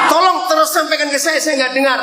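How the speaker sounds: high, fast, called out to the crowd; preacher shouting for the crowd to speak up; calling out. Real, not acted. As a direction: call across the hall, hurried. Can't hear the answers, calls out.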